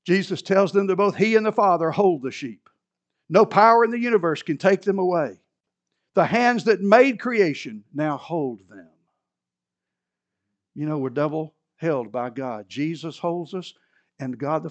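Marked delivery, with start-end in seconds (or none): 0.0-8.9 loud, assured pulpit declaration; forceful preaching. Real, not acted. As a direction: proclaim total security to the congregation.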